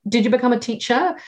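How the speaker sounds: ordinary delivery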